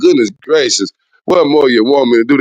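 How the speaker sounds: ordinary talk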